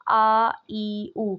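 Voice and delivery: آ ای او said lightly, no force; gentle throat vowels آ ای او; light hamza sound. Shown as a demonstration. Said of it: "تو یہ light sound ہے".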